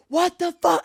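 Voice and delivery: acted-out freak-out yell; retold yelling. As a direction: cry it out in mock outrage. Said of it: "like, yelling".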